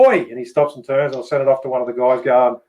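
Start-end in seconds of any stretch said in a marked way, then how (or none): 0.1-0.2 quick high call to the dog; retold yell. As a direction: re-enact a short attention-getting yell. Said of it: "I go".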